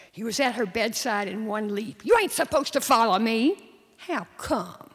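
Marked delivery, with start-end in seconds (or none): 2.0-3.7 loud, higher angry rebuke; angry scolding. Acted. Angry boy scolding sister. 4.0-4.9 put-on cheeky little-girl retort; sassy. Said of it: "Her voice was sassy".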